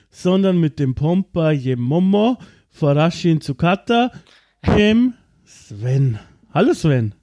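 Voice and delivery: tipsy, words running together; slurring. Real, not acted. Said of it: "ich lall schon".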